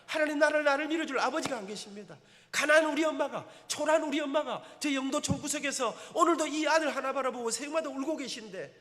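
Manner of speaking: loud, impassioned plea to God; retold pleading prayer. Retold tearful dawn prayer.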